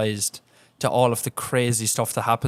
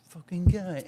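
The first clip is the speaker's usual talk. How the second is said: a laughing, lightly higher mock grumble; laughing quote; 6 semitones higher, slower than usual. Retelling the old man's grumble while laughing. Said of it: "and he's like".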